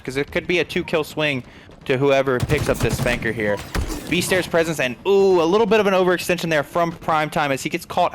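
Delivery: lively live esports commentary; play-by-play. Real, not acted. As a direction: call the match action as it unfolds.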